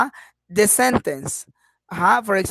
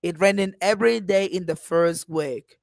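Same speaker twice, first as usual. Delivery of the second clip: hopeful tune, dipping then lifting on "first week"; down-then-up intonation; 3 semitones lower than usual. Shown as a demonstration. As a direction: let "week" carry a hint of hope. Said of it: "I am wishing that things can improve".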